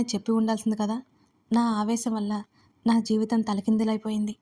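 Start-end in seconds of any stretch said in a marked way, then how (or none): none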